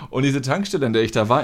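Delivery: ordinary talk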